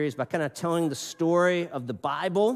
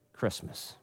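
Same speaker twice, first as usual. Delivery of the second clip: whispered; 8 semitones lower, 10 dB quieter than usual. Acted. Preacher drops to whisper on key word.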